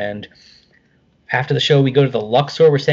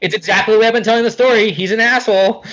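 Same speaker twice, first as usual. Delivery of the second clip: excited disbelief; 7 semitones higher than usual. Real, not acted. Rewatching video, amused disbelief.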